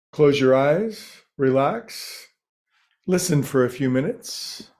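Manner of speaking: unhurried meditation teacher with long pauses between phrases; lightly held meditation-guide voice; guided meditation. Real, not acted. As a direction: ease listeners into stillness, phrase by phrase.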